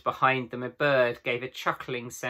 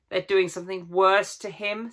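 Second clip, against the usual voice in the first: higher, urgent worry; anxious girl voice; 6 semitones higher than usual. A narrator's reading. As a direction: fear for a friend. Girl fearing for Aslan.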